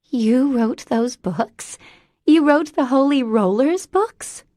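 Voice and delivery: put-on slow, high childlike disbelief; amazed. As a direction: drag it out in starstruck wonder. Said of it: "she breathed".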